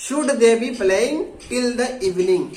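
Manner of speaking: very slow, each English word spelled out for learners; slow model sentence. Shown as a demonstration. Teacher showing students the English sentence, very slowly. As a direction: dictate it word by word. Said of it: "खेलते रहना चाहिए या खेल रहा होना चाहिए?".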